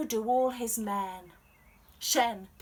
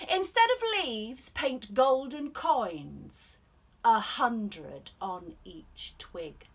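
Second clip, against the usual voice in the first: commanding emperor; 3 semitones higher, 7 dB louder than usual. Acted.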